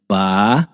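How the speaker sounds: "Ba" held alone, low and drawn out; syllable by syllable. Shown as a demonstration. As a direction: dictate "Ba" as the first separate syllable. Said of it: "vamos separar bainha?". ("Ba" isolado e alongado, separando sílabas)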